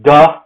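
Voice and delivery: duh with a voiced D for T; isolated "duh", D sound. Shown as a demonstration. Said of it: "pronounce the T as a D".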